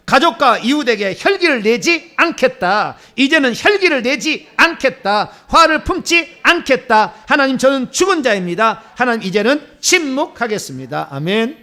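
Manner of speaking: high, loud chanted proclamation; emphatic group-led vow; congregational declaration. Real, not acted. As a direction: punch out each phrase for the crowd to repeat. Leads congregation in announced declaration.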